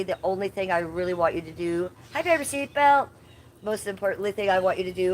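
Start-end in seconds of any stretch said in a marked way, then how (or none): 2.1-3.1 sweet pet voice. Real, not acted. Greeting pet in baby voice.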